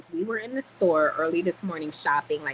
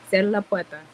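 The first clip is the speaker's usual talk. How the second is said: louder call in Spanish; 6 dB louder than usual. Real, not acted. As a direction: call out an order across the room. Calls out to someone in room.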